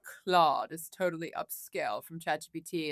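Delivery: mock-upscale English accent. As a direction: lightly put on an English accent. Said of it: "like, with an English accent".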